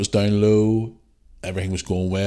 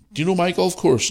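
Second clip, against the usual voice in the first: imitating Donald Trump; 10 semitones higher than usual. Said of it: "he says".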